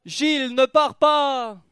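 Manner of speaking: high, loud, drawn-out cry; desperate plea. Acted. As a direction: howl it slowly after him. Begging as Gilles walks out.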